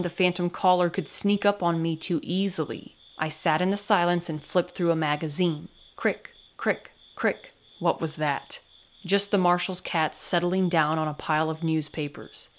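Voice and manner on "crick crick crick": small clicking noise, higher voice; short, separate little cricks; imitated creak. A narrator's reading.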